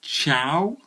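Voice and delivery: put-on playful Italian accent, lilting up; Italian word said with mock Italian flair. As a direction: try out a bit of hammed-up Italian. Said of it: "his knowledge of Italian".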